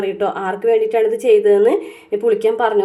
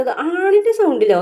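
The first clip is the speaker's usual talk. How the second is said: mock surprise; 7 semitones higher than usual. Veda feigns surprise.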